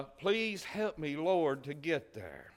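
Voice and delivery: slow, drawn-out plea to the Lord; pleading prayer. Acted. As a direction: beg the Lord slowly. Voicing a prayer.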